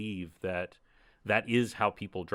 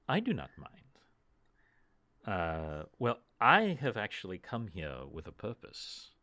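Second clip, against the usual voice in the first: 1 formal elf lady. Acted. GM voices the elf druid's formal speech.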